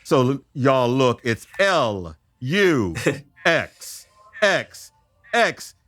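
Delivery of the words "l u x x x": spelling it out like a cheer; peppy letter-by-letter cheer; cheerleader. Pretend. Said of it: "I'm sounding like a cheerleader".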